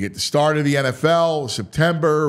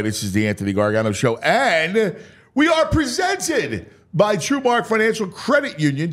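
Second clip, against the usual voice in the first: quick ad read; sponsor read. Acted. Sports radio host slipping in a sponsor read. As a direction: rattle off the sponsor plug.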